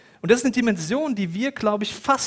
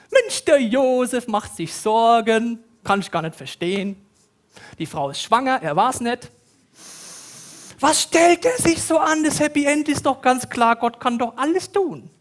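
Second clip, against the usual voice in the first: higher, louder know-it-all voice; mock complacent Bible reader, louder and higher; smug mockery; 6 semitones higher, 5 dB louder than usual. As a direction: scoff at Josef's worry, hammed up. Mocking complacent modern reader.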